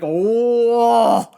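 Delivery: high wailing no no no; hammed-up despairing wail, pitched high; mock wail. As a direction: whine it like you're about to cry. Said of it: "I was like".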